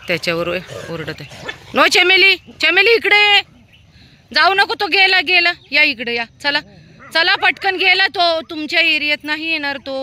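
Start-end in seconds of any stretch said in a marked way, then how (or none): 1.7-10.0 high, loud call to the dogs; urgent high call to come back. Real, not acted. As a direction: shout them back to you. Calling dogs back from stranger.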